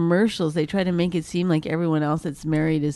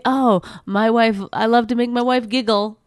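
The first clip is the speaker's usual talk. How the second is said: mocking sappy husband; 2 semitones higher, 3 dB louder than usual. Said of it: "It's not, gi".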